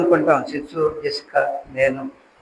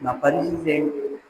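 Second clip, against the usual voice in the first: much softer, lower plea; Hannah's hushed prayer; 3 semitones lower, 9 dB quieter than usual. Retold or imitated. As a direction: pray it almost under the breath. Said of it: "ప్రార్థన చేస్తుంది". (మెల్లగా, తగ్గిన స్వరంలో ప్రార్థన)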